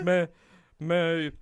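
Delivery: high, loud mock outrage; furious inmate. Inmate complaining to nurse about guard, mock fury. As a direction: imitate an inmate's indignant rant. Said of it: "this dude is furious".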